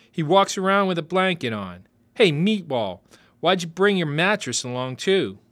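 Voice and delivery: put-on high, loud jeering kid voice; taunting kid. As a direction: jeer at him like a bratty boy.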